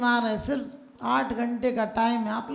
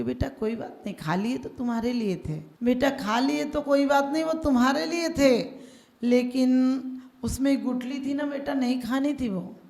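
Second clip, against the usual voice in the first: loving father. Retold or imitated. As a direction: coax the boy kindly, starting hushed. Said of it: "पापा प्यार से बोले".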